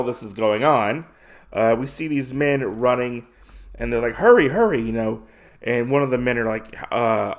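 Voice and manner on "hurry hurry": higher, louder mock urging; urgent call. Running men urge each other on, mock urgent shout.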